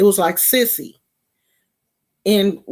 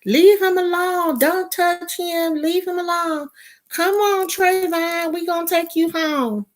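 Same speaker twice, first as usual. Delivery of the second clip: put-on girls' voice; 11 semitones higher than usual. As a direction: play the girls shielding the boy. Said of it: "it was the girls that were like".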